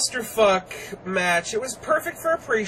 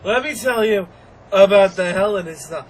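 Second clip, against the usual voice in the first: louder repeat; 6 dB louder than usual. Retold or imitated.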